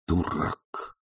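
soft, dejected word to himself; dejected muttered insult to himself; glum self-reproach. A narrator's reading. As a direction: scold yourself quietly and sadly. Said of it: "сказал он сам себе уныло".

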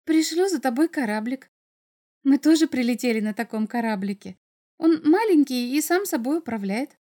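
put-on bird girl, explaining. Bird girl promising Maxim a little ship, lightly keen. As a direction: explain it keenly with a hint of girlishness.

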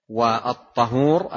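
"والطهور" with an a vowel after the ta, at-ta-HOOR; fatha on first letter. Shown as a demonstration. Teacher explaining water for purification, "والطهور" with fatha. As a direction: say "والطهور" as tahoor, not tuhoor. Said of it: "أيضًا بالفتح".

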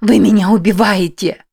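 испуганный крик; panicked screaming. Acted. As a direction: scream as if someone is poisoning you. Heroine hallucinating, fears poisoning.

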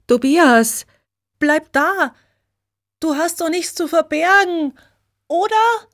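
viel höher, verzweifelt nachrufen; verzweifelt hinterhergerufen. A narrator's reading. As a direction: ihm flehend nachrufen, die Stimme steigt immer höher. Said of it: "ruft ihm Regina total verzweifelt hinterher". (Regina ruft dem flüchtenden Freund verzweifelt nach)

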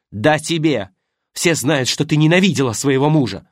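wife retorts to the actress, loud; angry retort. Acted. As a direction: fire it straight back. Shouting quarrel.

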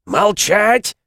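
loud high furious roar. A narrator's reading. Lord silencing insolent guest, furious roar. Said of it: "взревел сенор Венти".

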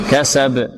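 كسب with a bouncing echo on the final b; qalqala demo. Shown as a demonstration. Teacher shows the rule on the letter ba, qalqala demo. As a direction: release the ب of كسب with a small bounce. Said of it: "قلقلة".

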